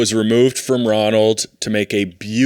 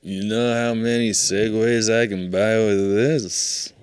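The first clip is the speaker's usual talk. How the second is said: mock drunk brag; slower than usual. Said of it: "He'd go".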